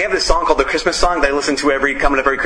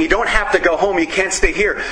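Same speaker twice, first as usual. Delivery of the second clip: higher, pushy send-off, imitating the priest; urging priest; 4 semitones higher than usual. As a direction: shoo them out the door, mock-urgent. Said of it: "the priest is basically flicking the light saying".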